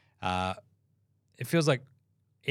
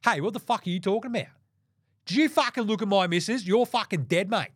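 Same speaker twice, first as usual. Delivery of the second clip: high-pitched, hammed-up outraged impression; mock confrontation, pitched well above normal; imitated LeBron; 8 semitones higher than usual. Host mimicking LeBron having a go at someone, mock outrage. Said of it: "'cause that's how he talks".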